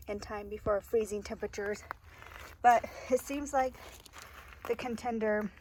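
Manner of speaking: slightly out of breath talking. Real, not acted. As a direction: talk a little winded. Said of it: "I don't know why I'm out of breath".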